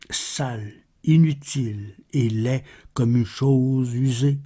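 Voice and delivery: measured, solemn verse reading with pauses; poem recitation. Acted. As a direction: recite the verse evenly, pausing between phrases. Recites a poem after spoken introduction.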